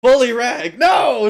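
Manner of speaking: hammed-up cry of protest; mock shout.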